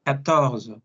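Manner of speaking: Catorce said katorz, QU as K; French quatorze. Shown as a demonstration. Teacher models French fourteen: Catorce as katorz. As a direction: Catorce with a hard K and silent final E. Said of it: "la Q y la U suena como una K".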